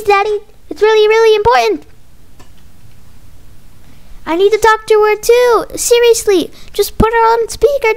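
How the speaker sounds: put-on high, insistent kid voice; pestering child. Child begs Daddy on the phone, high and pestering.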